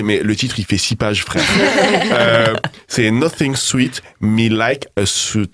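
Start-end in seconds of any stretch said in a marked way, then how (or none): 3.1-5.5 French-accented English. Real, not acted. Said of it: "désolé d'avance pour mon accent anglais".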